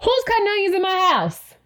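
high, loud teary joke; real tears, joking them away; laughing through tears. Real, not acted. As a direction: laugh off the crying. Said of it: "Okay, I'm not crying".

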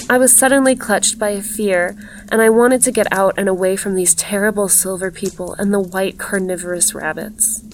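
measured, even literary reading; story narration. A narrator's reading. Narrator describing a glittering woman in green silk, measured storytelling. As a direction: read the tale aloud evenly, with care.

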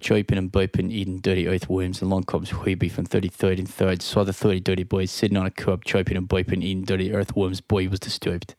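rapid New Jersey rap; New Jersey accent. Pretend. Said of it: "in a New Jersey accent".

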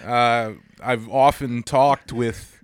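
halting impression with long odd pauses; Christopher Walken. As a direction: break the sentence in strange places, like the actor. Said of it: "show him exactly how you would say".

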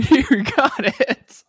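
tired, strained worn-out voice; a voice that is wearing thin; voice giving out. Real, not acted. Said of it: "My voice is giving out a little bit".

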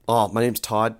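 Australian-sounding beach dude; Todd. Acted. Todd approaches Louise outside a fraternity house, Australian-sounding. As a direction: greet her in a loose Australian dude accent. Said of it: "I'm gonna use my Todd voice".

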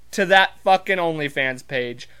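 words breaking into giggles; barely holding back laughter; trying not to smile. Real, not acted. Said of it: "I can't even keep a straight face".

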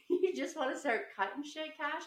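high pitched mock fury; mother mocking her son's cutting, high and angry; mock angry scolding. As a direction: scold him in a hammed-up high voice. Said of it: "So I was so mad".

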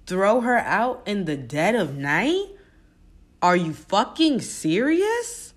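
slow, rising indignant scolding; a mother confronting the man who hurt her daughter; livid parent. Pretend. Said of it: "I would be livid".

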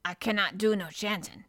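put-on mildly irritable old man; slightly peevish refusal; a touch testy. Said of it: "a trifle testily".

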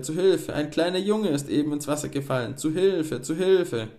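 high, loud frantic calls; crying for help. A narrator's reading. Miller calls his men for help, loud frantic cry. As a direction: keep shouting for help, alarmed. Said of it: "rief er".

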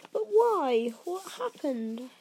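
put-on high, loud urgent question from a boy; pleading demand, starting high. A narrator's reading. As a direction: press urgently for an answer. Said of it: "Harry asked urgently".

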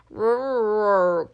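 loud growling roar; werewolf roar. Acted. Werewolf warning the group, roaring. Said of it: "growl and gesticulate urgently".

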